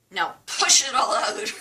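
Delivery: loud, high coaching push; urging on. Retold or imitated. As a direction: imitate a technician urging a hard exhale. Technician urging her to exhale.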